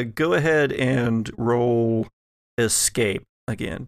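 ordinary talk

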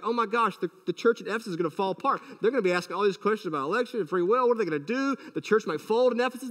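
fast, mock-panicked fretting; hammed-up anxious rush; mock worry. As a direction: rattle it off like a fretful worrier. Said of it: "he's not worried".

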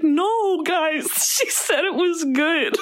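high laughing mock Australian; Australian accent. To her family, defending a friend's praise, light Australian accent. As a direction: plead in a light Australian twang. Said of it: "with my Australian accent".

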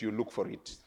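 ordinary delivery

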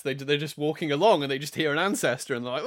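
ordinary talk, nothing marked

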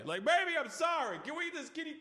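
high, pleading lover's plea; mock tender apology. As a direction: sweet-talk the partner, hammed up. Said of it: "at least while that person's walking away".

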